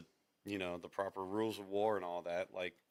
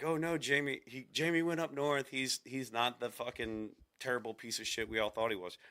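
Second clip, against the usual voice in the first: mock fan gushing; 3 semitones higher than usual. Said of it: "everybody's all like".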